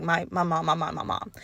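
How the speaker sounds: put-on hushed parody of a girl leaning on her mom; mock clingy girl. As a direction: murmur it helplessly like a little kid. Mimicking girls relying on parents.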